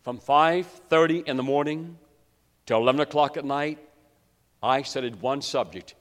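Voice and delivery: ordinary talk, nothing marked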